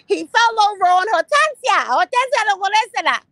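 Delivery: high, loud mock wailing. Vlogger mocking a grieving woman with a loud wail. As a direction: wail the name like a hammed-up mourner.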